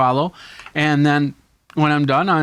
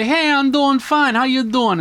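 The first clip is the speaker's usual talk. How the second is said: mock guest reply; 12 semitones higher, 4 dB louder than usual. Voicing the interviewee answering the vlogger, high and playful. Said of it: "They say".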